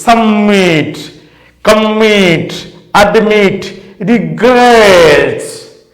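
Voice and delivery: Submit, commit, admit, regrets, each leaning on its final syllable; stress on last syllable. Shown as a demonstration. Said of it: "The last one is stressed".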